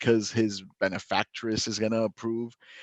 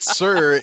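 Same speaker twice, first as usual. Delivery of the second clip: "sir" hit hard and much louder; stress on sir; 6 semitones higher, 10 dB louder than usual. Shown as a demonstration. Teacher stressing "sir" to show the polite cover. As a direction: lean hard on "sir" to smooth it over. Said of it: "as long as you put".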